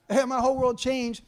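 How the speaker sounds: laughing repeat. Retold or imitated.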